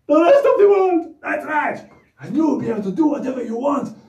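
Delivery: hyped-up, high puppet voice, loud bursts; bouncing with big news for the kids; excited puppet Anton. Acted. Excited puppet voice hyping the kids up.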